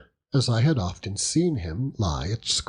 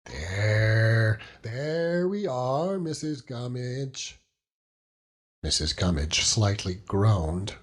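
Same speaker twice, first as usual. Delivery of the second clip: put-on soothing old fisherman; 4 semitones higher than usual. Peggotty soothes Mrs Gummidge.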